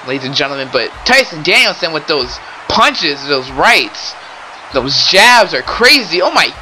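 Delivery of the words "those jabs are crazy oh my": rising into a yelling, higher commentator frenzy; excited shouting. Real, not acted. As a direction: call the jabs like the crowd is on its feet. Commentator hyped by brutal jab exchange.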